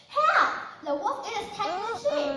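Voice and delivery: high, loud cry for help; shouting the alarm; crying wolf. Acted. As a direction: yell for help like it's a real wolf. Boy cries wolf as a prank.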